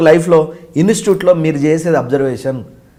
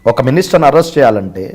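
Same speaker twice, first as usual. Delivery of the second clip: lightly imitated film actor, measured warning; spaced-out phrases, a hint of menace; Prakash Raj. Officer warns interviewer about arresting a minister, lightly imitated. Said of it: "అది ఎలా ఉంటుంది అంటే ఇప్పుడు ప్రకాష్ రాజ్ గారిది".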